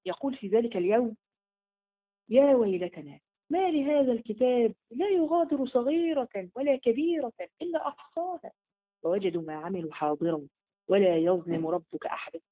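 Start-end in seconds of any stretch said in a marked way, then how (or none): 2.3-12.4 slow, measured chant-like recitation; the preacher recites the verse; Quranic recitation. Acted. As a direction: recite it slowly and solemnly.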